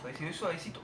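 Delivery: soft, careful urging; gentle coaxing. Real, not acted. Player nursing a delicate shot, soft coaxing. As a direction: coax it along softly.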